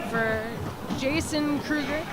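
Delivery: lively live sports call; play-by-play commentary. Real, not acted. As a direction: follow the action as it happens.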